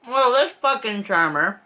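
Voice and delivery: talking while eating; mouth full. Real, not acted. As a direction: speak through a mouthful. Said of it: "I'm hiding my mouth 'cause I'm eating and talking".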